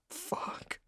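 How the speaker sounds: whispered, breathless curse; silent groan. Acted. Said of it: "I groaned silently".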